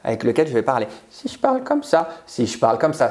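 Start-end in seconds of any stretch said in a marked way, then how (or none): 1.1-2.1 much higher tone; high-pitched demo voice. Shown as a demonstration. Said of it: "c'est le ton".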